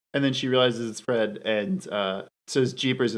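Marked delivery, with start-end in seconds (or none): 2.7-3.2 sultry. Retold or imitated. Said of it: "in the most sultry tone she possibly could muster".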